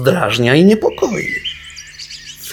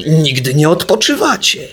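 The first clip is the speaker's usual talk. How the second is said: offended; 4 semitones higher, 5 dB louder than usual. Acted. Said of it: "obraził się fum".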